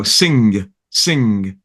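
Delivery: "sing" ending on a sounded hard g. Shown as a demonstration. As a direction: finish "sing" with a released g. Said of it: "like that hard g".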